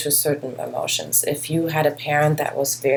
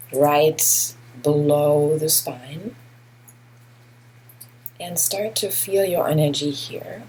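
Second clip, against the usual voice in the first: guided meditation. Real, not acted. Teacher guiding listeners through a grounding body scan, measured meditation delivery. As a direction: lead them gently inward, unhurried, pausing between phrases.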